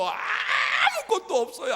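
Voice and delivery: 아무것도 없어요를 아주 높고 크게 느리게 외치기; 느리게 늘여 외치는 하소연; 투덜대며 외침. Acted. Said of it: "라고 투덜거리는 모세의". (아무것도 없다고 크게 외치는 모세)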